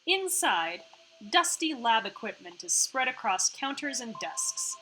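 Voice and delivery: even, measured narrator read; scene narration. A narrator's reading. Narrator leads players through the facility, scene narration. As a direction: set the scene like a game narrator.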